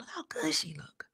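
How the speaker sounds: breathy aside whisper. Real, not acted. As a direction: whisper it like a secret to the viewer. Aside about Raven on screen.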